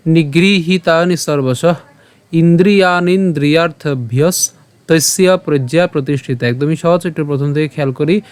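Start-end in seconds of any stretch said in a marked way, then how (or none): 0.1-6.5 slow, measured Sanskrit verse; shloka recitation. Shown as a demonstration. Teacher presenting today's shloka to learners, slow recitation. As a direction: recite the verse with drawn-out long vowels.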